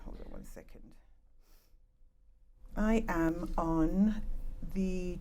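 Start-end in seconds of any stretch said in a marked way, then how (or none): 0.0-0.8 much softer, breathy off-mic aside; muttered aside. Real, not acted. Speaker to herself while fixing the slides, off-mic whisper. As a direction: drop away from the mic and half-whisper it.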